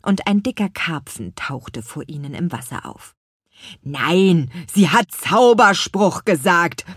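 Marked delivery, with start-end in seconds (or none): 3.8-6.8 louder, slower little fellow; a hint of a fussy apple man; lightly voiced apple man. A narrator's reading. Voices the Apfelmann figure.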